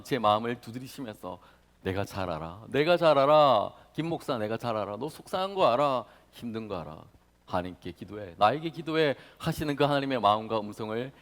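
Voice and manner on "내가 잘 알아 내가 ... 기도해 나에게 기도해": God's comfort. Acted. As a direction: tenderly assure the pastor. God answering the pastor tenderly.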